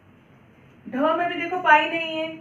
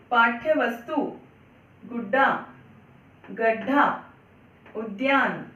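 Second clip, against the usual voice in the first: word list to repeat; 3 semitones lower than usual. Shown as a demonstration. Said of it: "तो आओ मेरे पीछे आप दोहराओ".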